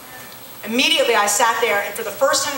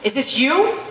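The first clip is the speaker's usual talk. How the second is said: a touch of retold anger, tossed off at God; half-hearted mock anger with a flippant edge; angry and flippant. Woman on the roadside retelling how she snapped at God, mildly angry and flippant. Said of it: "very angrily and very flippantly said".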